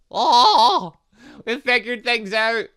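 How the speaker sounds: loud high laughing cheer; triumphant shout. Real, not acted. Gamer cheering a discovery, loud triumphant laugh. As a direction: crow it out in triumph.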